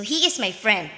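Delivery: "He is my friend." as a simple statement, falling at the end; "He is my friend." with the voice dropping on "friend"; plain statement. Shown as a demonstration. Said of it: "the speaker is stating that he is a friend".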